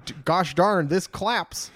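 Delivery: high excited slang shout; mock hyped exclaiming. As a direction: play it up, pitched high.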